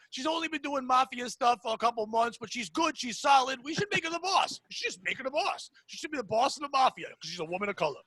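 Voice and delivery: a hint of an Italian mob boss; Nick Mullen's mob boss. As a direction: imitate a mobster doing open-mic patter. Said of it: "he started pretending like it was an open mic".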